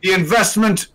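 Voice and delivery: dark lord. Acted. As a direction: declaim like a conquering alien. Villain speech about supervillains.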